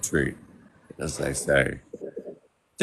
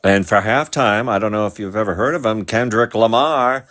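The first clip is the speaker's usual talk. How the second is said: frantic mock sports commentary; 3 semitones higher than usual. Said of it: "my sportscaster voice".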